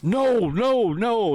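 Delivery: mock coworkers blocking the way; firm refusal. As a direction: stop him at once. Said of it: "coworkers block him".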